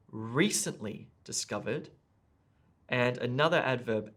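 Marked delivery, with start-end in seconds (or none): 0.1-1.9 "recently" emphasised on its first syllable; stress on RECENTLY. Shown as a demonstration. Teacher shows test takers the emphasised adverb, stress on "recently". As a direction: lean on "recently", lighter on "discovered". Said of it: "and the adverb".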